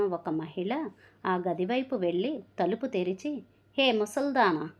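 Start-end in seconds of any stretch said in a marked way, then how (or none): 3.8-4.7 shouting. Acted. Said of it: "గట్టిగా అరవటం ప్రారంభించింది".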